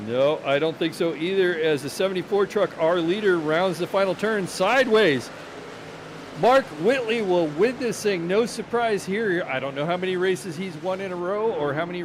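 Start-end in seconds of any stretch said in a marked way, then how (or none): 0.1-9.4 excited. Real, not acted. Leader wins, live finish call.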